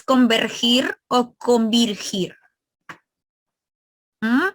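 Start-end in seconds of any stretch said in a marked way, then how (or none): 0.0-2.4 deliberately slow. Shown as a demonstration. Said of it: "pregunta por la uno".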